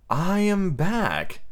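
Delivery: high, very slow indignant declaration; said hotly. A narrator's reading. Peter frowning at the silent boys, hotly. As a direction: draw out each word in a put-on grand voice. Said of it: "he said hotly".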